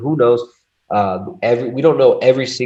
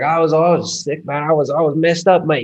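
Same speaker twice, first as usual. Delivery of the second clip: higher, louder, loose imitation of a Cockney friend; half-hearted Cockney, pitched up and loud; attempted Cockney; 7 semitones higher, 4 dB louder than usual. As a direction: retell it as a Cockney mate, voice raised. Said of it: "He's got, like, a Cockney accent. I can't do his accent".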